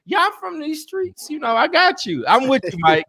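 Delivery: hushed forceful street talk; whisper yelling. Retold or imitated. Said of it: "this nigga whisper yell".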